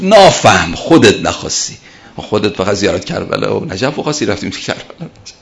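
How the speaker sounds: lightly voiced old cleric in a thick Mashhadi accent; a hint of a Mashhadi accent, half-teasing. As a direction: scold fondly in broad Mashhadi dialect. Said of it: "با اون لهجهٔ غلیظ مشهدی گفت".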